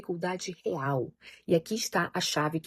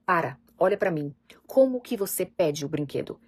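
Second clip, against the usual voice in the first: louder and steady, firm but not harsh; calm firm guidance; 5 dB louder than usual. Retold or imitated. Parent redirecting a child who grabbed a toy, firm and calm. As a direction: hold the child's attention, then guide. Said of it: "você fala".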